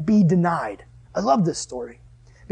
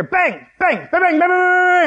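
high shouted volley of bangs; rapid-fire clatter on tin; imitated roof bangs; 12 semitones higher, 4 dB louder, slower than usual. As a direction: rattle off explosive bangs, building louder. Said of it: "all of a sudden I hear".

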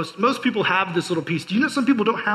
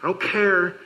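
defiant sinner; 2 semitones higher than usual. Retold or imitated. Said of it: "you say".

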